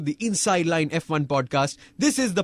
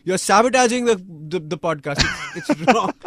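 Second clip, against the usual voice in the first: loud, higher, cranky accusing rant; Maldonado impression; 6 semitones higher, 5 dB louder than usual. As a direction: rant at him like an angry driver. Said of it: "Did I sound like, like Maldonado?".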